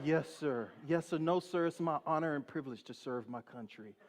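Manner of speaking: subdued, respectful yes-sir reply; mock-earnest deference; dutiful soldier. Dutiful answer to weeping officer.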